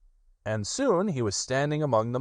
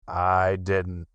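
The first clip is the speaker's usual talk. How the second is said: slow, mournful donkey voice; slow, glum old donkey; gloomy Eeyore. Acted. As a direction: sulk it out as Eeyore. Eeyore answers.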